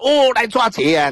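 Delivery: high mock yell of alarm; retold cry for help. Thief-turned-witness calls the couple in from the fields, high mock yell. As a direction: call out a thief alarm, pitched high but only half-shouted. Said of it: "就，就，就大叫一声呢".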